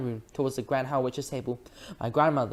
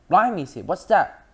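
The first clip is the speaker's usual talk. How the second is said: higher, louder surprise; startled; 5 semitones higher, 7 dB louder than usual. A narrator's reading. Taxi driver seeing a mouse, startled. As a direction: jump at the sight.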